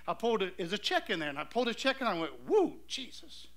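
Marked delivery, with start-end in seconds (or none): 2.5-3.5 slow, drawn-out "woo" of amazement; stunned exclamation. Retold or imitated. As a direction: re-enact being floored, stretching it out. Stunned reaction to the check.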